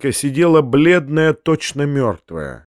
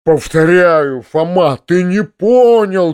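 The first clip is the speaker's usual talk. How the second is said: louder, insistent shout; 4 semitones higher, 4 dB louder, slower than usual. Acted. Uncle shouting at Foma, pale, louder. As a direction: press it hard on him. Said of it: "кричал дядя".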